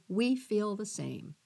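soft, slow and tender; heartfelt. Retold or imitated. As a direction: say it gently from the heart. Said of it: "a heart-rendering".

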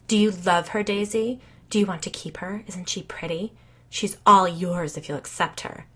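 eerie, coaxing imitation of a neighbor; creepy voice. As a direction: lightly mimic a creepy old neighbor. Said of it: "Kelly mimicked in a creepy voice".

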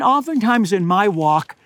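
usual speaking voice

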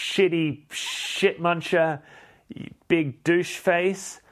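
high-pitched hammed-up rant, insults drawn out; comic panicked fury; mock outraged outburst. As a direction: burst out high, then stretch each insult. Acted labour outburst, hurling insults.

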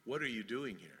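low, very soft question; hushed voice of God. Retold or imitated. Preacher recalls God speaking to him, hushed and low. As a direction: ask it softly and low, as God's inner voice. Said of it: "the voice of God saying to me".

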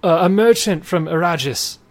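a hint of a weary merchant stuck in a tree; lightly voiced merchant. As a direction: play the stranded merchant pleading to get down.

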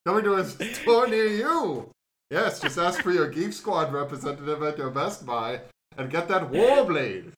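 snake oil seller. Acted. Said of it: "in a snake oil salesman voice".

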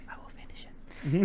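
breathy whispered promise. Real, not acted. Answering co-host's prompt to finish, in a whisper. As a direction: whisper it back conspiratorially. Hushed reply to co-host.

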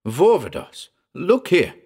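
high, urgent call. A narrator's reading. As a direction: grab his attention urgently.

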